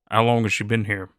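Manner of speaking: low, gruff Western drawl, unhurried; a gruff cowboy agent sizing someone up. Acted. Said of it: "in his gruff Western drawl".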